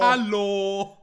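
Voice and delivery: put-on loud, high echo of the old man's yell; mock shout. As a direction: shout it back playfully.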